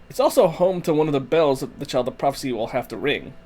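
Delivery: lightly put-on Italian accent; a hint of stagey Italian accent; Italian impersonation. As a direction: read it with a stereotypical Italian lilt. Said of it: "That is my best Italian impersonation".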